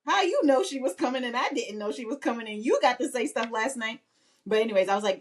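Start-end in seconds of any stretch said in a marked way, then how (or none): 0.1-4.0 higher, indignant mock protest; lightly voiced sibling grievance; left-out child. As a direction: imitate a kid complaining in one run-on burst. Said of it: "she's feeling, like, left out".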